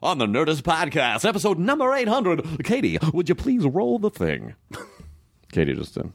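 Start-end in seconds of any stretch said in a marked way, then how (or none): 0.0-4.5 smooth radio announcer delivery; a light radio DJ voice. Shown as a demonstration. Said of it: "I just did radio voice".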